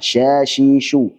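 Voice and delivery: slow "Syashishu" with the sh hiss spreading wide; spread shin. Shown as a demonstration. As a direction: let the air fan out on each "Syashishu". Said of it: "Dia punya sifat tafashi, nyebar". ("Syashishu" pelan, desis menyebar)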